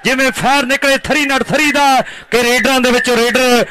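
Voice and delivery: rhyming, chanted play-by-play praise; kabaddi commentary. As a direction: hype the raider in rhythmic verse.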